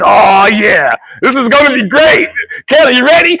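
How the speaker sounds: loud, high thrilled shout; excited yelling. Retold or imitated. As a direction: yell with glee before launch. Excited on launching ride.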